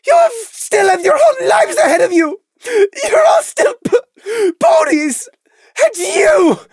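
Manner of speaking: high, loud, sobbing tirade; miserable rant. A narrator's reading. Lily raging at visitors to leave, miserable shrieking rant. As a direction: scream it at them through tears. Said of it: "loudly panting by the end of her miserable rant".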